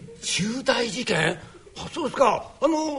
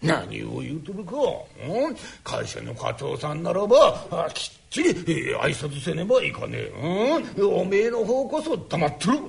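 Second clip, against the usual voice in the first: put-on old father voice; 6 semitones lower, 3 dB quieter, slower than usual. Father scolds his son.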